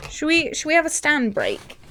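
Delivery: playful question to the dog; pet talk. Real, not acted. Asking her dog.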